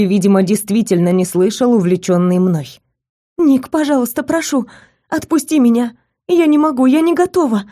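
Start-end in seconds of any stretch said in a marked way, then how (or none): 3.4-7.6 1 pleading. Acted. Heroine begs Nick to release her.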